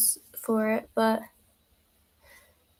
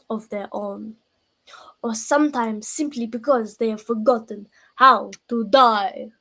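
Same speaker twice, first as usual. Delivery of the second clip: a hammed-up Dracula-style vampire accent. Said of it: "it's got my vampire accent".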